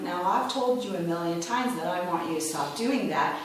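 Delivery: restrained parental telling-off; pointed finger tone. Retold or imitated. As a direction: lecture a child without raising your voice. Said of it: "that pointed finger tone".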